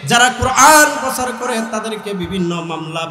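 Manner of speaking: usual speaking voice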